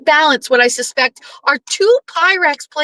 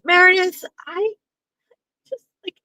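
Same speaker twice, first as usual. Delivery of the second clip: high, breaking little plea as the daughter; mock tearful plea; 7 semitones higher than usual. Retelling the movie, the daughter choking up at Meredith. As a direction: squeak it out like a choked-up daughter.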